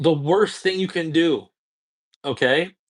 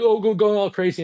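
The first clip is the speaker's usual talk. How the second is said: higher, hammed-up party hype; crazy hyped energy; 7 semitones higher, 3 dB louder than usual. Coach acts out a guy going crazy in a library, mock-hyped. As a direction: burst in like a wild man, mock-excited. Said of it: "if you had crazy energy".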